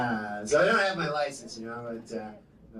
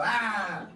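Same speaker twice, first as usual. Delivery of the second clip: trucker yell; 3 semitones higher than usual. Acted. Pretend trucker's yell repeated.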